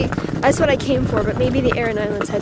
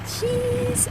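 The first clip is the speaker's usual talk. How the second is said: much higher, playful squeak on the one word; squeaky cheese; 13 semitones higher, 5 dB quieter than usual. Real, not acted. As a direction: sing out the snack like a cute reveal. Playful reveal of usual snack.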